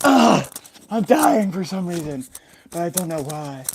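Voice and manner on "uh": loud acted groan of pain. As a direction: groan from the floor, hammed-up. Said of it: "in pain".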